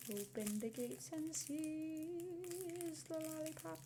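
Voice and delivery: slow, grand mock battle cry; mock epic command. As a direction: declaim it like a siege order, slowly. Commanding the lollipop wrapper.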